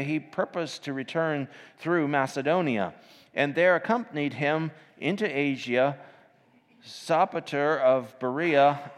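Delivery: lifted, measured Bible reading voice; scripture reading. Acted. Preacher reads Acts twenty to the congregation, lifted reading. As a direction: read the King James verse out to the church.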